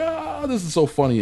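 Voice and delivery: high-pitched imitation of amused onlookers; squealed mock amusement; mock delighted crowd. Imitating the delighted audience reaction.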